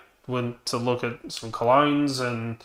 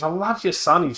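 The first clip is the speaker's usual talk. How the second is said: mock saleslady flattery, higher pitched; imitated sweet talk; 6 semitones higher than usual. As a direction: lay on a fake compliment. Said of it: "trying to sweet talk me".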